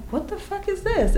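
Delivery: high, soft mock disbelief; bewildered reaction. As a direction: squeak out a hushed retold question. Retold shock at cracked tooth.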